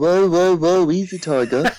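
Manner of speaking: put-on Brummy accent. Asked by another speaker, repeats a man's exact words in a Brummy accent. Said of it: "can you repeat that in the Brummy accent?".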